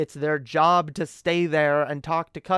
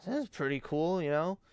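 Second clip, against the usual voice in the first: higher, eager dad talking up his son; imitating dad's eager pitch; 5 semitones higher than usual. Dad pushing his son on the bartender, eager higher voice. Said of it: "Just being like".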